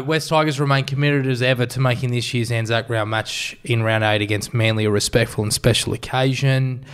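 measured, low-pitched statement read; news read. Acted. Host reading the club's jersey apology to the panel, news read. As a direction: read it out evenly like a news bulletin.

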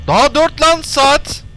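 high, slow, loud panicked wail; panicked complaint. Real, not acted. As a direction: plead in panic at the clock. Panic, clock still at four. (panik içinde yakınma)

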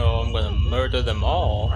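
loud angry vow to kill them all; furious threat. Real, not acted. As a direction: spit out the threat in real rage. Furious at game villains.

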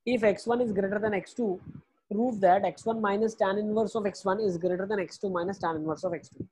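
very slow, word by word, for students to copy; slow dictation. Shown as a demonstration. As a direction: dictate the question slowly so they can write it. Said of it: "सीधा, सीधा question लिखो". (धीरे-धीरे बोलकर लिखवाना)

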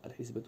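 "الحسبة" with a short i after the ḥ; kasra on the ḥāʾ. Shown as a demonstration. Lecturer showing students the term's vowel, "الحسبة" pronounced ḥisba with kasra. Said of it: "بكسر الحاء".

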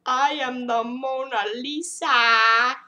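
painting mask announcing itself slowly; Mona Lisa voice. Pretend. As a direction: present yourself as the painting. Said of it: "now I got".

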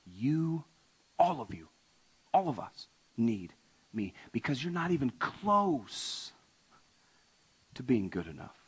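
soft, tender Jesus voice; Jesus softly telling everyone they need him; gentle plea. Acted. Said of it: "Jesus says".

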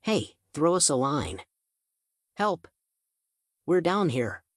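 high call up out of a well; calling for help. A narrator's reading. Trapped kids call up the well, high calling out. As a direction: yell up to be rescued.

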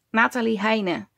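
"Nathalie Heine" clearly, as NAH-ta-lee HY-nuh; "Nathalie Heine" with falling end, Heine as HY-nuh; name pronunciation demo. Shown as a demonstration. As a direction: present the full name "Nathalie Heine" for learners. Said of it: "you pronounce it like".

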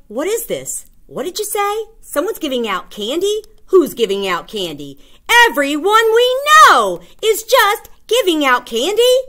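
high-pitched, rising disbelief; a kid who just heard about free candy; excited kid. Retold or imitated. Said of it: "You're like".

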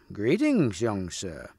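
gentle greeting with a swooping lilt, dropping soft; kindly. Acted. Old knight greets young Percival, kindly. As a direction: greet him with a kind smile. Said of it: "smiling kindly upon Percival".

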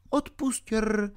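put-on a little girl saying sorry; apologetic girl. A narrator's reading. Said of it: "omlouvala se Alenka".

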